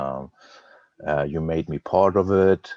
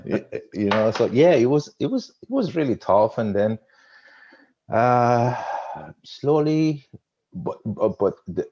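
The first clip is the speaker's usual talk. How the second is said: higher, louder, words still carried on the laugh; laughing through it; 7 semitones higher, 4 dB louder than usual. Real, not acted. Guest still laughing as he tells the host it was tough. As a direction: ride the end of the laugh into the words.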